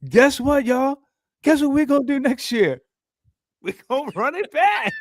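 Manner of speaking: high, loud hyped-up wrestler voice; excited Jey Uso impression. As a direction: shout it like a hyped wrestler teasing the crowd. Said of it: "be like".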